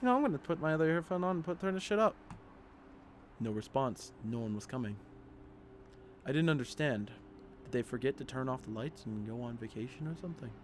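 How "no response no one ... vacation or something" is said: story narration. Acted. Player reading horror game text, in subdued narration. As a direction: read the horror story aloud evenly. Reads the game's story aloud.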